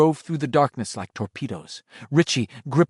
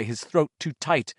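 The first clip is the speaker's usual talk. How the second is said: ordinary delivery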